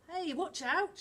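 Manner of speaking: loud, high alarmed shout. Acted. Amir to the others as the dinghy tips, shouting. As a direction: warn them as the boat tips. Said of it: "shouted Amir".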